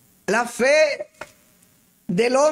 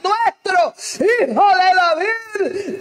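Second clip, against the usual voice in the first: fervent plea; 6 semitones higher than usual. Acted. Blind men cry out to Jesus.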